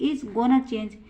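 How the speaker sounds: slow, clear example for students; teacher reading it out slowly to the class; slow model sentence. Shown as a demonstration. Teacher models the sentence, slow and clear. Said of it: "और तीसरा example".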